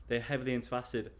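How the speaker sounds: fast, clipped "They're heavily into acid" with "heavily" stressed; fast, matter-of-fact retake; quick plain rephrase. Real, not acted. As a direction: rush the rewording out. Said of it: "I don't know how to say it".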